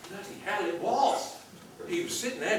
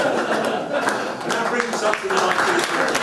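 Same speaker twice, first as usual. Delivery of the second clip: 1 mock serious; 3 semitones higher, 9 dB louder, slower than usual. Mock serious line while laughing.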